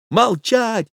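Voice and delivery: stern hush. Acted. Lover silences the old man.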